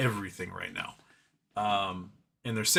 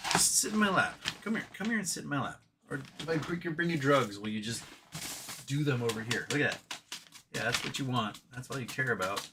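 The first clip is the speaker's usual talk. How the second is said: quieter, coaxing pet talk; soft cooing to the cat; 5 dB quieter than usual. Real, not acted. Host coaxing the cat off the desk, soft and teasing.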